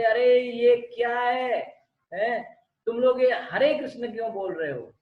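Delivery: indignant heckler, acted out; mock scolding. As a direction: imitate someone telling off a devotee. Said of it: "तो ऐसे बात कर करके उसको डांट रहा था".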